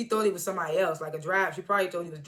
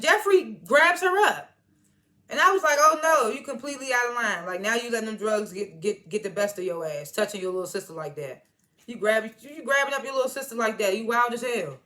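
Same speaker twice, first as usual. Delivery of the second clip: outraged. Real, not acted. Outraged reaction to the scene.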